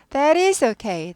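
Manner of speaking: That is okay said very slowly; slow demo read. Shown as a demonstration. Teacher reads the example sentence slowly. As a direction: draw out each word. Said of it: "That is죠?".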